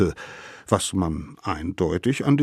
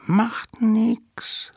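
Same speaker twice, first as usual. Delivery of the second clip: whispering. A narrator's reading. Littlest savage brushes off having no spear, whispering. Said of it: "flüsterte der Allerkleinste".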